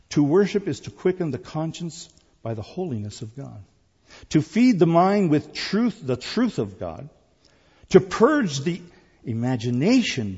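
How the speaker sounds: deliberate quote reading, phrases set apart by pauses; slow reading. Real, not acted. Pastor reading an archbishop's words to the congregation, slow reading. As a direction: read it out slowly, lifting each phrase opening. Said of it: "I'm gonna read it slowly".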